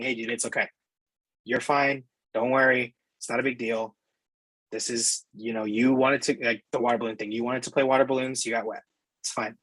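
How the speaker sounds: put-on calm the upset kid down kindly; a touch of a comforting dad; soothing parent. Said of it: "the parent in me talking to the kid in me".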